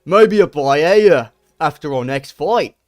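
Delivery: slow, loud mock Volkanovski voice; a hammed-up Volk, slow and loud; imitating Volk. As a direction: act out Volk's slow reply. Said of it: "and then Volk goes".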